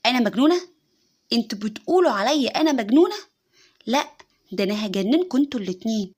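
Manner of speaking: loud furious outburst; shouting. Retold or imitated. Wife shouting at husband and his mother, furious. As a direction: yell back at the accusation. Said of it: "وفضلت تزعق وتقول".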